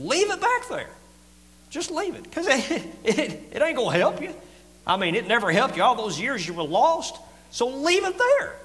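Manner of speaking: very high, loud, straining plea; high preaching cry. Real, not acted. Preacher pleading with the church to leave the past, crying out high. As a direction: cry out like a hard-pressed preacher.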